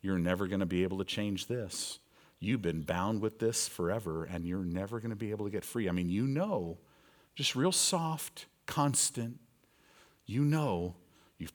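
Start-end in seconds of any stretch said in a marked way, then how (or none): 0.0-5.9 whispering devil. Acted. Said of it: "he's whispering to you".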